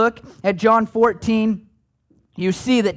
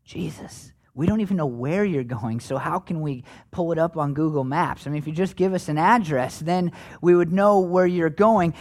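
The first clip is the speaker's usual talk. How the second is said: softer, half-whispered bewildered plea; mildly confused disciple; 3 semitones lower, 4 dB quieter than usual. Retold or imitated. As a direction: play a puzzled follower, a touch whiny. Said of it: "And Thomas is like".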